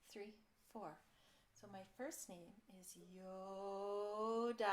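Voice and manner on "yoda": slow naming. Shown as a demonstration. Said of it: "we're gonna do it like this".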